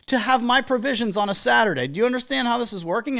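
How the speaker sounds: a hint of a cocky vendor; confident vendor. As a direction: play the in-demand vendor laying down terms. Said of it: "it's like".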